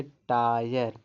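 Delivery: टायर drawn out slowly with a clear आय; teacher shows the आय sound in टायर; slow word demo. Shown as a demonstration. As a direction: model टायर slowly, stretching the आय. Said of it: "वाई का उच्चारण आय भी निकलता है".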